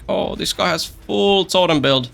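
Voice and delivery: lightly voiced mock opponent; mock other player. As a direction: drawl it out like an impressed stranger. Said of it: "and they're like".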